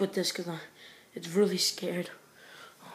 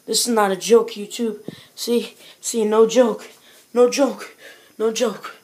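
loud emphatic insisting; loudly insisting to YouTube it's no joke; insistent; 2 semitones higher, 10 dB louder than usual. Real, not acted. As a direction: hammer home that it's real.

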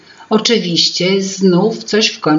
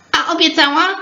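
curious question; 9 semitones higher, faster than usual. A narrator's reading. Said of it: "spytał Imbryczek".

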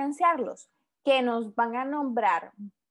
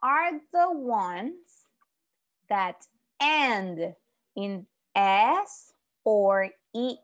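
slow reading aloud; much slower than usual. Shown as a demonstration.

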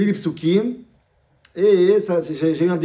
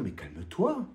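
aside to calm down; 9 semitones lower, 10 dB quieter, slower than usual. Pretend. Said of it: "j'ai envie de dire".

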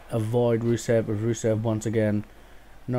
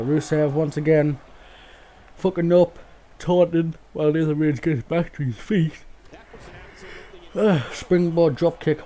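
rising commentary excitement; 4 semitones higher, 4 dB louder than usual. Real, not acted. Commentating his wrestling game, getting louder and higher with excitement. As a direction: voice climbs higher and louder as the action heats up. Live commentary, opponent messes up.

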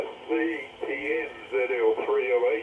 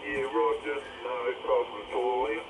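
over walkie talkie; 5 dB quieter than usual. Real, not acted. Other station answers radio check.

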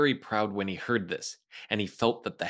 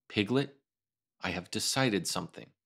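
solemn; 2 semitones lower than usual. Acted. Pooh confiding his plan to Piglet, lightly solemn. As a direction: announce it gravely, like a secret. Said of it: "said in a very solemn voice".

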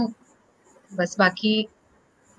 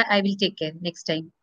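timid promise; 6 semitones lower, 9 dB quieter, much slower than usual. Retold or imitated. Meek promise to the guru.

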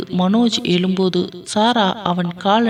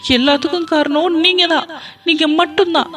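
wailing and crying; 8 semitones higher than usual. Acted. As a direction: beat your head and wail it out, pitched high. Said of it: "அழுது புலம்பி தீர்த்தாள்".

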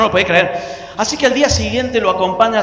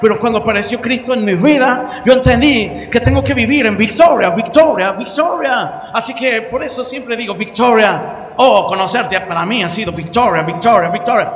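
higher, fervent preacher voice; gringo testimony; 3 semitones higher than usual. Retold or imitated. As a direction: testify with joy. Gringo explaining his faith. (gringo dando testimonio con fervor)

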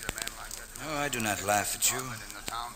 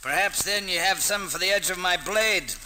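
swaggering taunt; 7 semitones higher, 3 dB louder than usual. Acted. Miles daring the ruffians to fight, swaggering. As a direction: relish the threat of the blade.

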